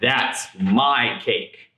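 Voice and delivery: each word dragged out slowly, a mild monster growl; monster's slow claim. Acted. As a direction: slowly claim the cake like a lightly voiced monster. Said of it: "a monstrous roar".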